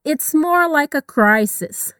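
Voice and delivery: very slow, clear phrasing; slow model reading. Shown as a demonstration. Teacher reading the line slowly for students. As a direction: stretch it out for repetition.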